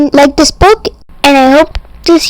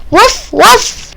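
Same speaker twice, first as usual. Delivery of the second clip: much higher yappy puppy bark; high playful woof; 8 semitones higher than usual. Pretend. Reading the dog book aloud, a high playful puppy bark. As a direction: yip it like a tiny dog.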